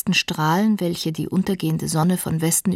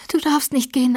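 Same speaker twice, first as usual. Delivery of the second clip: high, insistent plea; desperate insistence; 7 semitones higher than usual. A narrator's reading. Catherine clings to Heathcliff as he leaves, insistent. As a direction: forbid it in a raised voice.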